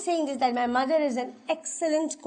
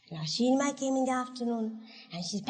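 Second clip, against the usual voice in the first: normal talking voice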